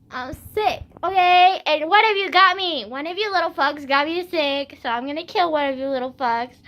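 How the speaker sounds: indignant, playful ranting; exasperated retold outburst. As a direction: lash out at the crowd in mock threat. Acted outburst at lunch crowd.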